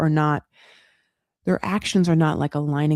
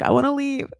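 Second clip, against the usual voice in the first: imitated unhappiness; 8 semitones higher than usual. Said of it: "she's not happy".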